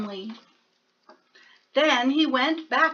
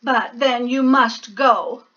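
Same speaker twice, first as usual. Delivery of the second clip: sniffling; 5 dB louder than usual. Acted. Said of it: "he sniffled".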